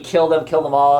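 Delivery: half-shouted retold battle cry; mock scream. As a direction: imitate screaming deer without fully screaming. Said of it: "the deer are screaming".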